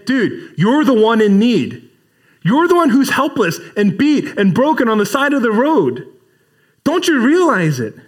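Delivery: heartfelt preacher's appeal; earnest plea. Acted. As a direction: urge him, you're the one in need. Jesus voiced pleading with lawyer.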